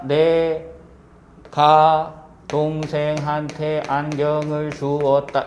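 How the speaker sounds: slow, evenly spaced syllables on a level tone. Shown as a demonstration. Teacher sounding out a sentence to count its syllables, syllable by syllable. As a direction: sound out "내, 가, 동생한테 안경을 주었다" one syllable at a time. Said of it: "소리 내봐".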